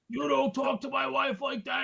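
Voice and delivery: mock-confront someone for insulting your wife; retold husbandly warning, voice pushed up; indignant husband.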